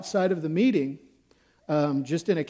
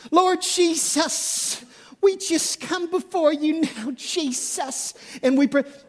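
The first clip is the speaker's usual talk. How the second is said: put-on high, swooping Southern belle accent; 10 semitones higher than usual. Recalling a woman leading prayer at a prayer meeting: put-on Southern belle accent. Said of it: "this like Southern Belle accent would start coming on her".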